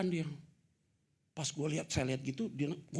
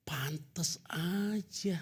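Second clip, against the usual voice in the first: whisper; 6 semitones higher, much slower than usual. Retold or imitated. Wife's whispered reaction.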